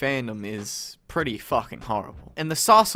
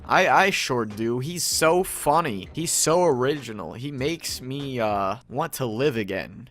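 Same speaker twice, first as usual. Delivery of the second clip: slow, dry mock praise; deadpan sarcasm. Mocking Pickle Rick fans with slow deadpan sarcasm. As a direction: say it like you mean the opposite.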